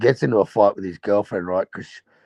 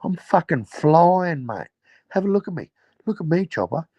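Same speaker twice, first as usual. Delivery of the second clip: high mock cocky voice; Neville; 8 semitones higher than usual. Neville boasting to Chopper, high cocky put-on voice. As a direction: play a limping crook bragging he's flying, voiced high. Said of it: "And he goes".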